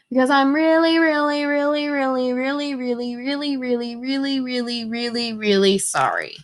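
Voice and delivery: put-on child's sorry trailing off; earnest apology fading. Lily apologizing to teacher.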